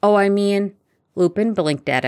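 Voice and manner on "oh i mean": higher, louder backtracking; flustered and unfinished; faltering. A narrator's reading. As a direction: stumble into a correction. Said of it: "Harry faltered".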